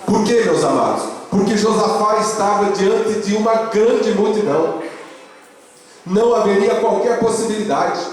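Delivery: high, insistent pulpit delivery; emphatic preaching. Real, not acted. Pastor explains Josafá's impossible odds, high emphatic preaching.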